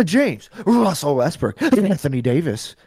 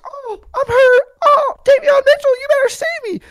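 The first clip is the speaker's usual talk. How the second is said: high, whiny mock voice of a hurt player; sports fan mocking a player in a high whiny voice; mocking whine; 4 dB louder than usual. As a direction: whimper it like a crybaby asking for rescue.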